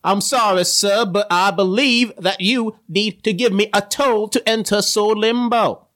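put-on a barely-there British accent; a Southern man's half-hearted British accent; weak British accent. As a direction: attempt a British accent and mostly miss. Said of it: "Is that supposed to be a British accent?".

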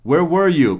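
"Where were you?" with stress on "were", rising high and then falling; natural question tune on "Where were you?"; question intonation. Shown as a demonstration. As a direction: punch "were" high and let "you" fall. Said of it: "Com essa entonação".

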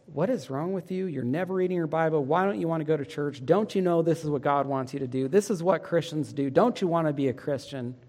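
understated frustrated rebuke; harsh scolding. Shown as a demonstration. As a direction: lightly play the nagging, condemning parent. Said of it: "But if we say it like this".

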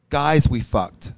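Guys We Fucked said slowly, each word weighted; slow emphatic title. Shown as a demonstration. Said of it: "it's called".

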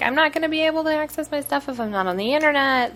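high, fast panicky quote; panicked user. Retold or imitated. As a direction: play the freaked-out user. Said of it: "people are like".

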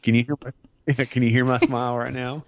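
talking through a smile; smiling voice. Real, not acted. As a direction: let the grin come through. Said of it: "Are you smiling right now?".

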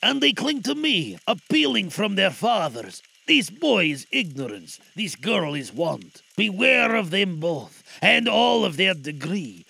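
echoing ethereal being warns; spirit voice. Acted. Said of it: "cried the spirit".

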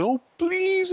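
put-on high little-girl voice, begging; imitating a little girl pleading; little daughter pleading. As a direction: beg sweetly like a small child. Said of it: "She said".

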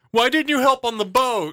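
high, loud complaining friend; whiny friend. Pretend. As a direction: whine it at him, high.

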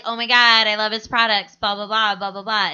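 lightly gushing fan imitation, fading; retold freak-out. Friend retelling people freaking out over products, mock gushing. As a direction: gush briefly, then tail off into blahs. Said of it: "freak out".

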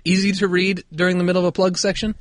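put-on high, loud English accent. Co-host reading a UK listener's podcast review, English accent. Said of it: "doing this in an English accent".

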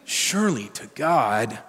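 slow, heavy exasperated sigh of a phrase; stronger exasperation. Retold or imitated. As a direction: lean on it with weary force. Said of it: "It's even stronger".

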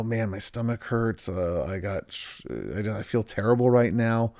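low, soft groaning complaint; mock sick patient. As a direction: sound a bit ill and miserable. Patient describing stomach pain.

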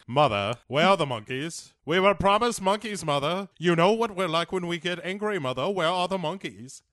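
put-on high, loud pleading child whining for the monkeys; whiny kid. Child nagging mother about the monkeys, whiny high plea. Kids in the film, voiced comically.

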